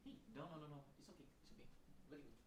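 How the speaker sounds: soft reassuring murmur to a pet; soothing the dog. Retold or imitated. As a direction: hush a squirming dog gently. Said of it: "He's, he's like".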